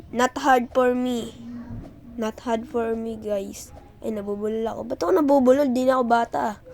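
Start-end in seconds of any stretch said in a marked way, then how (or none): 0.1-1.5 slow drawn-out boast. Real, not acted. Boasting while playing.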